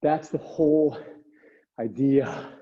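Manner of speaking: winded after the intervals; catching breath while talking. Real, not acted. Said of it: "My legs are on fire".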